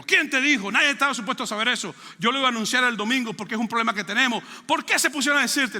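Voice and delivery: scolding pastor. Retold or imitated. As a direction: scold him like an upset pastor.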